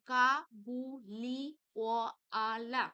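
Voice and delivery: কা বু লি অ আলা loudly, one syllable at a time. Shown as a demonstration. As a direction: pause between the syllables of কা বু লি অ আলা. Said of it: "এখানে হবে দেখো". (কা বু লি অ আলা আলাদা করে বলা)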